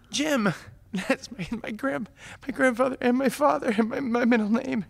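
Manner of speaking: barely holding it together, real emotion; choked-up laughing cry. Real, not acted. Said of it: "Just abject weeping".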